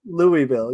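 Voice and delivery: Louisville echoed back as LOO-ee-vil; Louisville in full, three syllables, LOO-ee-vil; Louisville as Louie-ville. Shown as a demonstration. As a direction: say Louisville with the EE sounded. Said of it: "that's my go-to out".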